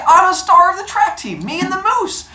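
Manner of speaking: high-pitched bragging track star; boastful rabbit. Acted. Bully rabbit brags to the turtle, boastful.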